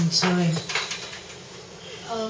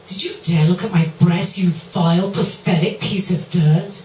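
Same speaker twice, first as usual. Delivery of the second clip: louder, sneering contempt; contemptuous scolding; 5 dB louder than usual. Acted. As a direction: spit the insults down at him. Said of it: "Now that's a little better".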